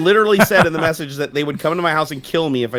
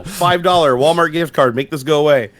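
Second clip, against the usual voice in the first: hammed-up scam-caller plea, slow and louder; mock robocall demand, louder and slowed; 3 semitones higher, 5 dB louder, slower than usual. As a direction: play the pushy scammer for laughs.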